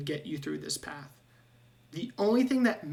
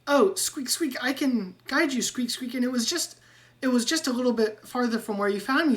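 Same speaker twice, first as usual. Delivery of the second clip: much higher squeaky rat voice, squeaks between words; squeaky rat Ratrick; 5 semitones higher, 3 dB louder than usual. Acted. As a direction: chatter like an eager little rat. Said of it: "and he'll go".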